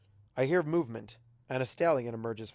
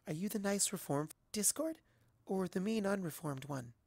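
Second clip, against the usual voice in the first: soft, higher, hesitant question; timid soft voice; 6 semitones higher, 7 dB quieter than usual. Acted. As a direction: ask shyly, barely daring. Timid Fluttershy asks.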